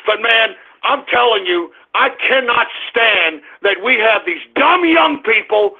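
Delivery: low, contained real anger; pissed off. Real, not acted. Host apologises to folks for cursing, in low-voiced anger. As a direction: drop the voice and seethe. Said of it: "I'm fucking pissed off".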